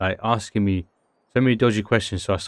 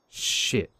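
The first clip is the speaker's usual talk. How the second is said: whispered curse; 5 dB quieter than usual. Real, not acted. Muttered reaction while thinking.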